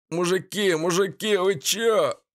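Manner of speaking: high, frightened babble; babbling in fear. A narrator's reading. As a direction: plead with the men in terror. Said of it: "залепетал небритый хмырь". (испуганный лепет)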